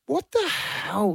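shocked whisper. Retold or imitated. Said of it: "and I'm like".

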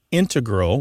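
integral said as IN-te-gral; stress on first syllable. Shown as a demonstration. Host explaining mathematicians' usage to the caller, integral as IN-te-gral. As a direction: punch the IN of integral. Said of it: "with the stress on the first syllable".

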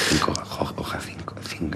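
whispered, low thinking aloud; very soft, half-voiced musing; muttering to oneself. Real, not acted. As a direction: whisper the clues to yourself. Puzzling aloud to himself.

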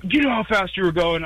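playing the cop who pulled him over; imitating the cop. Retold cop questioning him.

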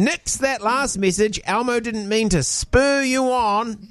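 put-on high, slow childlike Elmo voice; squeaky little monster voice. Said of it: "he sent out another tweet saying".

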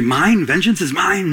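incredulous, questioning "Vengeance is mine?" with a rise on "mine"; doubting question. Retold or imitated. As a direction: echo it back in disbelief. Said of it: "You might say".

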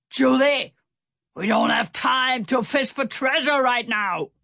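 high, exasperated holler; shouted scolding. A narrator's reading. Stout Sam scolds Julie the pig mid-escape, shouting. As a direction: call her name sharply, then scold. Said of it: "Stout Sam shouted".

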